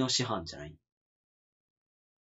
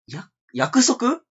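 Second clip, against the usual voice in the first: drawn out, rising in sudden recognition; slow, amazed realization; surprised realization; 8 semitones higher, 4 dB louder, much slower than usual. Real, not acted.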